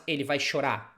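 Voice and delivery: chorar with the final r dropped; casual dropped R. Shown as a demonstration. Teacher showing the everyday form to avoid. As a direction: drop the r at the end of chorar. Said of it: "And not".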